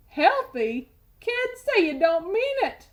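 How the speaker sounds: high, pleading wail; the tooth begs in disbelief. A narrator's reading. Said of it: "wailed the Tooth".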